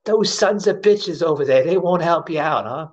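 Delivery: high imitated old Jewish lady, griping. Old lady griping about bystanders, high mimicked old Jewish lady voice. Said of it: "Little old Jewish lady".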